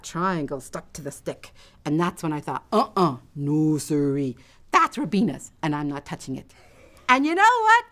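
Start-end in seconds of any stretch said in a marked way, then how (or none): 2.7-6.5 mild, low-pitched resolve; firm refusal. Acted. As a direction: talk yourself out of it firmly. Resolves to leave triangle.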